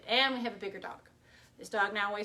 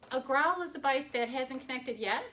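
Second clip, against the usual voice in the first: statement turned into a question, rising on "yet"; demonstrated uptalk, voice climbing at "yet"; unsure uptalk; 3 semitones higher than usual. Shown as a demonstration. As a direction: lift "yet" upward as if unsure. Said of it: "it sounds like I'm not sure".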